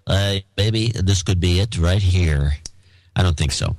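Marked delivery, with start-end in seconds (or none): 0.0-2.5 slow, slurred wasted voice; twitchy slurred sniffing addict; bath salt addict voice. Pretend. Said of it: "do you have a bath salt addict voice?".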